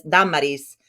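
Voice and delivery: "Damaris" with the first syllable stressed, Spanish style. Shown as a demonstration. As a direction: hit the first A of "Damaris", rest light. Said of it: "the accent is on the first A".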